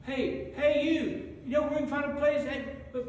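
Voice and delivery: desperate husband begging for a room; pleading Joseph. Acted.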